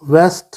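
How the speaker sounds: वेस्ट as one separate, deliberate beat; isolated syllable. Shown as a demonstration. Teacher counting the second syllable, वेस्ट on its own. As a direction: set वेस्ट apart with pauses round it. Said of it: "second syllable".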